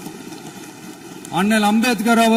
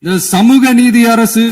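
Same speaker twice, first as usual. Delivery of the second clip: louder and slow, so the benches hear; speaking loudly; 5 dB louder than usual. Real, not acted. So the opposition hears him, slow and loud. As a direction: project it deliberately across the hall. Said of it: "நான் ஏன் கொஞ்சம் சவுண்டா பேசுறேன்".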